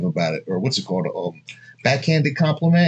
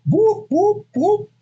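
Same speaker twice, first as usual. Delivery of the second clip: mock whoop; slower than usual. Celebrating a big tip.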